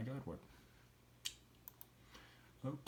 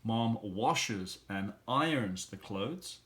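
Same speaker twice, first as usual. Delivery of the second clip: slow, clear model sentence; much slower than usual. Shown as a demonstration.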